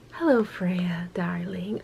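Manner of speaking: lightly voiced charming rogue; seductive whisper. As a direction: whisper it like a smooth flirt. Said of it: "he definitely has an accent".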